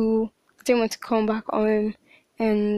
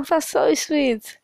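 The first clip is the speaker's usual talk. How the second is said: touched; 5 semitones higher, much slower than usual. Retold or imitated. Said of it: "there are times that I'm like".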